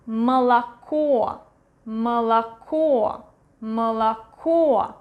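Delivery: "Молоко" said muh-la-KO, stress on the end; "Молоко" as muh-la-KO for learners; vowel reduction. Shown as a demonstration. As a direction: model "Молоко" with short first vowel, A, then stressed O. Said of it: "stress is going to the".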